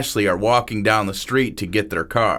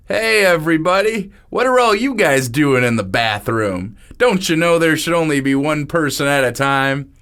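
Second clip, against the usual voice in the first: a bit louder, dopey and cheerful; goofy party host; 5 semitones higher, 3 dB louder than usual. Acted. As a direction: barge in like a clueless host. Goofy host Brian barging in.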